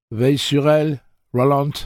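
high, loud urgent request; urgent plea. A narrator's reading. Eddie asking Roland to watch over her, urgent and loud. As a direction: call it out high and pressing.

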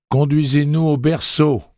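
high, firm order; commanding demand. A narrator's reading.

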